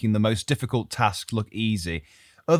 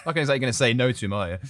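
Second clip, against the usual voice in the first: usual speaking voice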